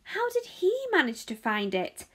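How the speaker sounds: put-on high, loud indignant boy; angry shout. A narrator's reading. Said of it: "a large boy shouted angrily".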